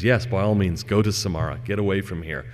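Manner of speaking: understated kindly master. Acted. Master granting his frightened servant's request, mildly kindly. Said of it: "the master very kindly says".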